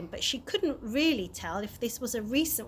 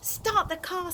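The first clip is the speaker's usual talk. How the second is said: commanding; 7 semitones higher than usual. Acted. Chloe takes charge urgently.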